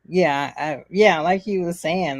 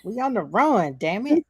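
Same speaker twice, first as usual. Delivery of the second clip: exasperated retort; 5 semitones higher than usual. Retold or imitated. Acted exasperated retort to pestering child.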